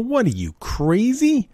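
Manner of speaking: incredulous, sharply rising "crazy"; mock disbelief. Real, not acted. Asking if someone who lifts the bowl is crazy, incredulous. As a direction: act like it's unthinkable.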